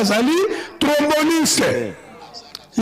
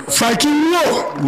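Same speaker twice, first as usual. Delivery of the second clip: rallying call; 4 semitones higher, slower than usual. Real, not acted. Rallying slogan to the crowd.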